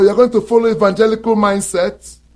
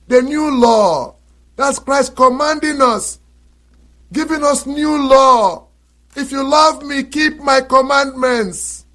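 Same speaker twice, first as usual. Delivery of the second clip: preaching at full force; 6 semitones higher than usual. Acted. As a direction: drive the point home to the flock. Preaching climax, higher louder.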